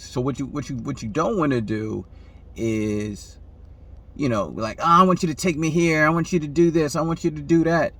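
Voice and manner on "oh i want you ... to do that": pushy, bossy list of demands, pitched up; demanding. Retold or imitated. Woman demanding things from her man, bossy. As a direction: rattle off orders like you're in charge. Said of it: "This is controlling masculine behavior".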